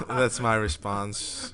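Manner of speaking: slow, laughing through the words; laughing repeat. Real, not acted. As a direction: chuckle while repeating it. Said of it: "repeat with laugh".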